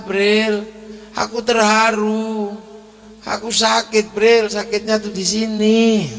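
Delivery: ordinary talk, nothing marked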